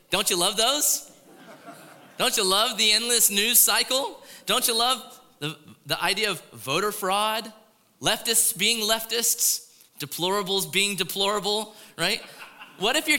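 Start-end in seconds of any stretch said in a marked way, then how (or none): 0.1-11.7 drip sarcasm on each item; mock cheer about election news; sarcastic. Real, not acted. Sarcastic list of election woes.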